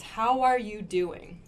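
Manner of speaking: "How are you doing" with are kept in; full form. Shown as a demonstration. Teacher repeating the correct form. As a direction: keep every word, slightly slow. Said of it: "is what this means".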